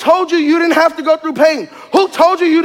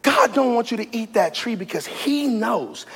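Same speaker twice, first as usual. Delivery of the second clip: lower, softer sly tempter coaxing Eve; tempting Satan; 4 semitones lower, 4 dB quieter than usual. Retold or imitated. Satan coaxes Eve toward the tree, low and sly. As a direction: whisper the lies like a seducing serpent. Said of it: "And then Satan said".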